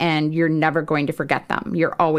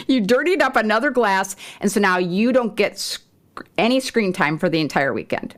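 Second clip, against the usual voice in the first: mock stern husband; 3 semitones higher, faster than usual. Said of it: "my husband says".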